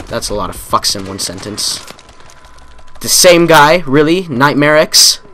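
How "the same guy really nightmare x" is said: loud, high outraged disbelief; indignant loud yell. Real, not acted. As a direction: call out the player who keeps killing you. Killed again by same player.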